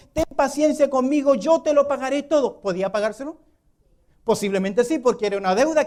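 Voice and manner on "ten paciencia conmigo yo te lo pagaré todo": pleading fellow servant. Acted. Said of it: "le rogaba".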